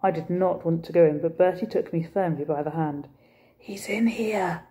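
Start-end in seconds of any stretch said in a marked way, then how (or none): 3.6-4.6 slow, hushed whisper. Acted. Bertie in the dark doorway, whispering. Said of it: "he whispered".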